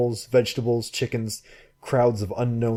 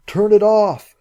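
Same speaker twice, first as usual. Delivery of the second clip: loud, much higher frantic shout; 12 semitones higher, 10 dB louder, slower than usual. Acted. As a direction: scream the order at her. Frantic shouts at drifting boat.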